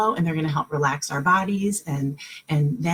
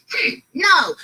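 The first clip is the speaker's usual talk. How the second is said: high, loud whiny no; mock whiny child; 10 semitones higher, 5 dB louder than usual. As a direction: act out a sulky kid refusing. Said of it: "Instead of being like".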